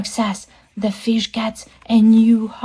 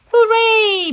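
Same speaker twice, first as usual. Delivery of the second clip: put-on high, drawn-out childlike cheer; Baby Shark; 12 semitones higher, 4 dB louder than usual. Baby Shark celebrates the sand castle, excited cheer. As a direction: cheer gleefully at the top of your range. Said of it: "Baby Shark says".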